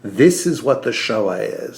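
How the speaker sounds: slow, pointed mock declaration; mock author voice. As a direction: spell it out slowly, lightly mocking. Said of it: "A singer took a moment to be like".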